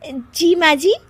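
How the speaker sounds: giggly reply. Acted. Bahu answers giggling.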